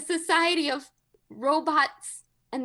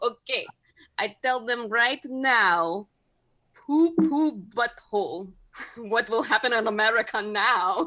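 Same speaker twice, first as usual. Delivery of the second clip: put-on Russian accent with the word "now" drawn out; 3 semitones lower than usual. Playing a Kremlin leader boasting to an aide: Vladimir Putin voice. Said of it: "Vladimir Putin meets with his closest aides".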